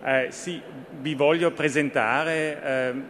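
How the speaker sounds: Italian spoken with an Austrian accent; careful Italian with an Austrian accent. Real, not acted. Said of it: "Scusate il mio, eh, italiano un po', eh, austriaco". (italiano con accento austriaco)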